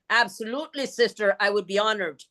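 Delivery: put-on child lightly copying the nun's Irish lilt; mimicked Irish accent. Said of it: "quit making fun of her accent".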